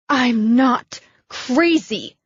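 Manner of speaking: whispered, slow and defensive; hushed whisper. Acted. Abigail whispering back to Brooke in defence, hushed. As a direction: breathe it out, hurt.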